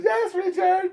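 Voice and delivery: high theatrical shouted answer; drama queen. Retold or imitated. Coworker answers, hammed-up theatrical shout. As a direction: sing it back like a diva. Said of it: "Like, drama".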